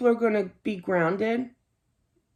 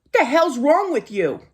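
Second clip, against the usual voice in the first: sharp mock yell, louder; retold nurse yell; 4 semitones higher, 5 dB louder than usual. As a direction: throw the nurse's rude yell back at them. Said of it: "yells at me".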